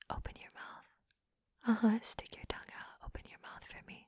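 soft, breath-only orders; commanding whisper. Acted. Dominant giving partner orders, whispered. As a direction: whisper the instruction, unhurried.

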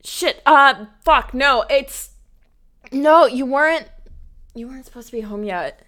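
rattled and furious, spit it out; flustered angry snapping. Acted. Caught by her roommate, she snaps back in anger. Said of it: "What voice?".

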